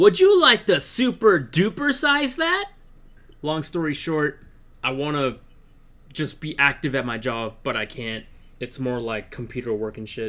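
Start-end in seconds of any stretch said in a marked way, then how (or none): 0.0-2.7 overly cheery put-on voice, very high and loud. Joking about recording voice clips for a blow-up doll stand-in: uncharacteristically cheery put-on voice. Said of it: "uncharacteristically cheery".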